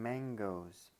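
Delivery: "mangoes" set off from the words after it; stress on MANGOES. Shown as a demonstration. Lecturer showing what emphasis implies, with stress on "mangoes". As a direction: put weight on "mangoes". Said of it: "is emphasized".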